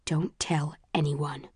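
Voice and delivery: slow, breathless hushed whisper; inner whisper. A narrator's reading. Tori's warning echoing in the narrator's head, whispered. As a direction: breathe it like a secret.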